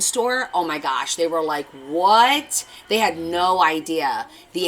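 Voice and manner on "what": surprised high what; a stunned what from the visitors; amazed what. Retold or imitated. Visitors at the Halloween store, stunned and surprised.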